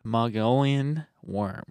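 slow, drawn-out midnight radio voice. Pretend. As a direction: try a slow late-night host delivery. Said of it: "do that in midnight voice".

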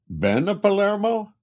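put-on very high, eager Italian-accented ask; eager Italian question. A narrator's reading. Italian laborer eagerly asks Colin about Palermo. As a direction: leap up hopefully, Italian accent. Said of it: "asked the Italian eagerly".

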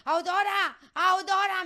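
high, loud name call; imitated calling out. Woman quoting who called her in the heat, high holler. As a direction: call the name out, drawing out the end. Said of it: "me decía Castillo".

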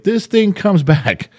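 laughing mid-sentence, slowing on the words; can't keep the laugh out of it; chuckling while telling it. Real, not acted. Laughing through own retold threat.

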